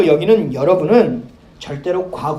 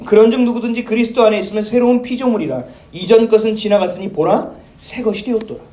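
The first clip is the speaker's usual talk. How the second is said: steady, solemn Bible reading; scripture reading. Acted. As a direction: read the verse with weight. (엄숙한 성경 낭독)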